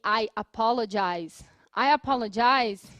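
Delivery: "I apologize" said slowly and clearly; example phrase. Shown as a demonstration. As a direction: model "I apologize" for students. ("I apologize" dito devagar)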